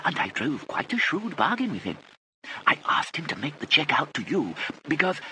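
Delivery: put-on high, airy elderly lady voice; fluttery old aunt. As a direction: gush like a vague dotty aunt. Aunt Kit voice.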